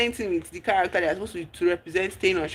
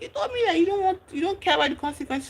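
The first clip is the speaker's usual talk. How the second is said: angry; 11 semitones higher, faster than usual. Retold or imitated. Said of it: "K was so angry".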